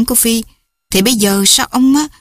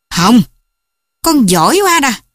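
angry father; 4 semitones higher, 3 dB louder than usual. Acted. Father scolds daughter angrily.

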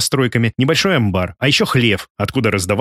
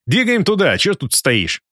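higher-pitched order, urging someone on; mild scolding call; 7 semitones higher, slower than usual. A narrator's reading. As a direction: chivvy him along without really shouting. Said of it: "прикрикнул он на шофёра". (лёгкий окрик, подгоняя)

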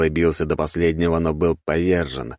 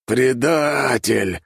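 hissing; 8 semitones higher, much slower than usual. A narrator's reading. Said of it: "прошипел высший перс".

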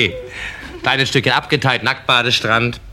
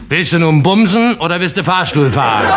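laughing punchline; 6 semitones higher, 3 dB louder than usual. Acted. Punchline sign, shouted with laugh.

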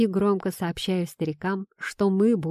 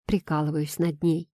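ordinary delivery

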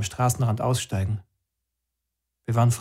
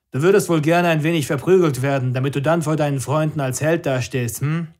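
mocking commander; 3 semitones higher, 3 dB louder than usual. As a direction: sneer at the would-be hero. Commander mocks after laughing.

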